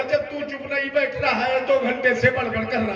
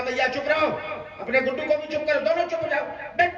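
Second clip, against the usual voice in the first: scolding; 3 semitones higher, much faster than usual. Retold or imitated. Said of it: "मैंने डांटा".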